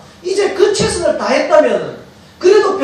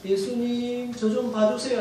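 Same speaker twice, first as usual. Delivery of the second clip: soft, half-hearted call for help; timid plea; 10 dB quieter, slower than usual. Shown as a demonstration. Beggar meekly asking Jesus for attention, softly timid. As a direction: ask quietly, without pushing. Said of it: "하지 말고".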